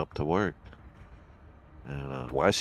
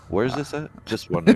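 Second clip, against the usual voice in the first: high, loud mock-innocent eagerness; mock eager; 11 semitones higher, 9 dB louder than usual. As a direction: feign innocent curiosity loudly.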